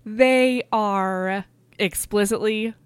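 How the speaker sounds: slow, suggestive drawl with a laugh; coy innuendo. Real, not acted. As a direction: drag it out knowingly, chuckling.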